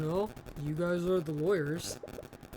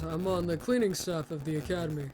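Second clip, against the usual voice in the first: sleepy janitor voice. Acted. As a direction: say it like you could yawn. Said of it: "When I do his voice".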